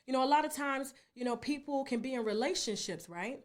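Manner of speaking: quiet, low-pitched counsel; doctor gently explaining. Retold or imitated. Doctor explains consent to Tasha, gently. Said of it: "And she said".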